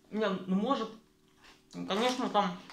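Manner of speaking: talking while chewing cracker; muffled words around food; mouth full, chewing. Real, not acted. Seen 3: Cracker put in mouth at -1.0; chewing visible, more bites throughout.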